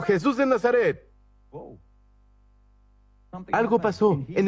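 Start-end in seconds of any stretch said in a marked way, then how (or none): 0.0-1.1 raised high pitch, little extra volume; mock cry. Preacher showing what the blind man did not shout, mock cry. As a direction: call out the name as an example. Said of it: "Noten que no gritó".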